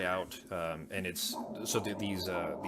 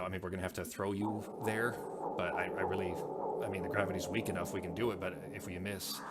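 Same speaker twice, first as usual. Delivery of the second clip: hesitant, slowing at the end; reluctant admission that peters out; awkwardly trailing off. Acted. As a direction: stumble through it and let it trail away unfinished. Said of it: "he kinda trails off awkwardly".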